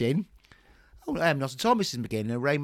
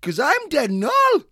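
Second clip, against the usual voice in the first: spoof party broadcast; 6 semitones higher, 11 dB louder than usual. Acted.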